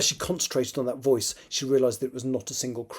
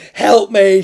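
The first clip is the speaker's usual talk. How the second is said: loud, high-pitched cry for help; urgent full-voiced plea; desperate scream; 7 semitones higher, 13 dB louder than usual. A narrator's reading. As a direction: scream it as loud as you can. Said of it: "she screamed into her head as loud as she could".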